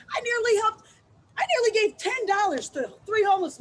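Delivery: a sudden distressed cry that breaks out; anguished cry. Acted. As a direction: cry out as if confessing something shameful. Horrified at his own kindness.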